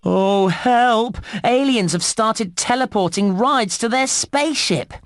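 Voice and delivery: urgent game-character panic, lightly hammed-up; acted alarm. Game voice-over announces alien attack.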